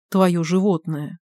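slow, dry echo of твоё животное; mocking echo. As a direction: throw твоё животное back slowly. (Шибаев медленно, с иронией передразнивает Алика)

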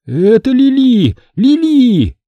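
high, loud shout of a name. A narrator's reading. Boy recognizes his sister in the dog, shouting her name. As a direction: cry out her name in shock. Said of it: "закричал я".

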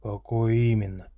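weary orc voice. Acted. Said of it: "устало поинтересовался Шенге".

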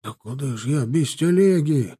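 plaintive protest climbing high; flustered. A narrator's reading. Peasant stuck with his cart, flustered protest. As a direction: protest helplessly, rising into a wail. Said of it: "суетился мужик".

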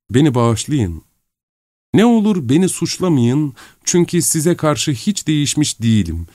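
lightly voiced tearful girl, begging forgiveness; Nastenka's letter voice. Reads Nastenka's letter aloud.

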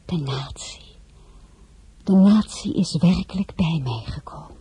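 hushed, breathless wonder; awed whisper. Acted. A princess whispering in awe that the nation came to her. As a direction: whisper it as if you can't believe it.

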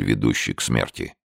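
plain reading voice

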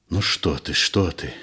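low, soft, hushed soothing; calm her gently, a little scared yourself; frightened and tender. Acted. Fyodor soothing frightened Anfisa, soft and hushed. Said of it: "испуганно и ласково".

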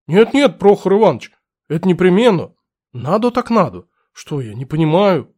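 put-on eagerly backpedaling old clerk; fussy old clerk. Clerk hastily agreeing.

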